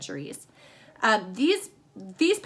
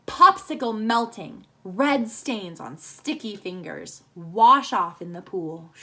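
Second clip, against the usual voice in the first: poem reading; 2 semitones lower, slower than usual. Shown as a demonstration. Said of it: "I'm gonna read you a summer haiku".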